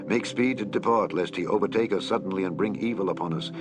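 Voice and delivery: ordinary delivery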